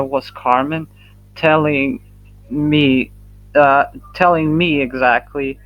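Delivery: halting, repeating words; stuttering. Real, not acted. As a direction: stumble over the words. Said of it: "excuse me for stuttering".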